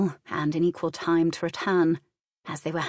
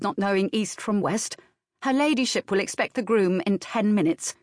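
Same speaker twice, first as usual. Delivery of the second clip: lightly voiced nurse, brisk and scornful; commanding nurse; 2 semitones higher than usual. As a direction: give orders with no patience for fools.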